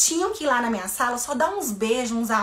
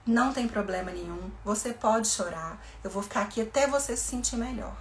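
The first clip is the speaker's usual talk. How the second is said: soothing reassurance; 3 dB quieter than usual. Shown as a demonstration. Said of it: "deixa ela chorando e fala".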